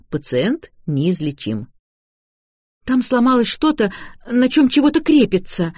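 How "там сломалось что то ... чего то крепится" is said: babbling tearfully. A narrator's reading. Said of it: "лепетала Шарлотта".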